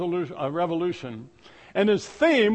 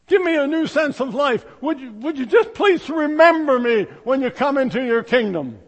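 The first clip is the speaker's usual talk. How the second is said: pleading thief; 3 semitones higher, 3 dB louder than usual. Acted. Dying thief pleading with Jesus, raised and urgent. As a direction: beg like a dying man.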